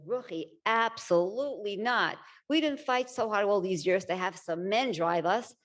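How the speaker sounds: emphatic retold objection; firm refusal. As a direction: quote the group putting their foot down. Group firmly rejects her suggestion.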